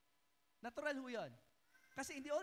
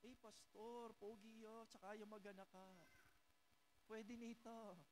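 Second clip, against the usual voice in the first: softer, pleading mock voice of a smitten girl; mock girl excuse; 3 semitones lower, 10 dB quieter than usual. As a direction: imitate a girl defending her boyfriend. Young woman defending boyfriend voiced. (mahinang panggagaya sa dalagang nagtatanggol)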